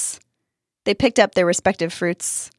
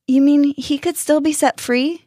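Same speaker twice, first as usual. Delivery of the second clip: rising, higher and lighter with new hope; hopeful question; 7 semitones higher, 3 dB louder than usual. A narrator's reading. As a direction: ask it hopefully, lifting at the end. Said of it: "Danny asked hopefully".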